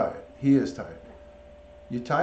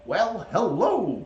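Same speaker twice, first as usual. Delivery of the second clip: high, slow, swooping hello; playful greeting; 7 semitones higher, 4 dB louder, much slower than usual. Shown as a demonstration. Owner trying to get his bird talking, high playful greeting. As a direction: stretch it out high to coax a pet.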